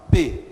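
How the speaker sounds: P said with a hard burst of air; strongly aspirated P. Shown as a demonstration. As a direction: pop the P sharply. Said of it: "Um P bem acentuado". (P bem acentuado, explosivo)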